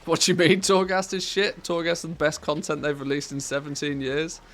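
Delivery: mock outrage. Mock outrage defending Torghast.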